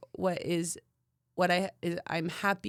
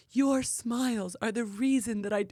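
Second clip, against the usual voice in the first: put-on Italian accent; 4 semitones higher than usual. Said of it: "with an Italian accent".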